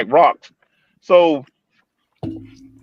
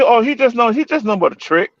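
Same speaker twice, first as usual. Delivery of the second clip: mocking women; 6 semitones higher, faster than usual. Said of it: "you hear women".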